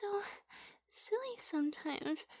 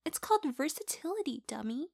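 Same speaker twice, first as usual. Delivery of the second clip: teasing; faster than usual. Acted. Playful teasing.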